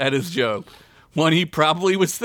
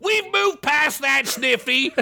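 shouted back; 12 semitones higher, slower than usual. Acted. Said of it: "Rick shouted back".

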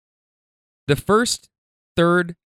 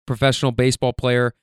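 ordinary talk

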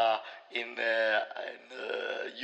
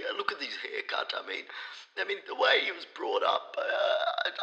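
hoarse, creaky, half-whispered expert; croaky voice. Acted. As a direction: rasp through a sore throat. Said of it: "you sound like you got a very croaky voice".

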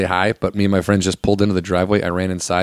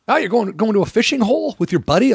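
higher, sarcastic needling; mock sarcastic dad; 11 semitones higher than usual. Dad mocking his son's fishing trip, sarcastic. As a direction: needle him like a snide father. Dad's sarcastic jab retold.

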